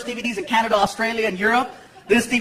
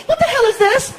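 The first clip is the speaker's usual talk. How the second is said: much higher, loud outraged question; girlfriend's shrill demand; 4 dB louder than usual. Retold or imitated. Girlfriend confronting him at 3am, high and outraged. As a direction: play the angry girlfriend.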